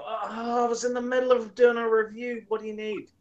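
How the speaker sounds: a hint of tight, put-upon politeness; strained politeness. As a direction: hide the annoyance, barely. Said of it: "I'd answer and go".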